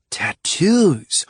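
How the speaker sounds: thoughtful. A narrator's reading. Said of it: "had turned thoughtful".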